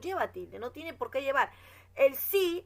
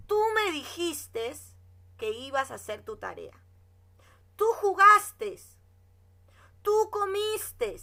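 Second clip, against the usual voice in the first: scolding; 6 semitones higher, 8 dB louder than usual. Shown as a demonstration. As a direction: scold the pupil, stretching each word. Teacher acts out scolding a child.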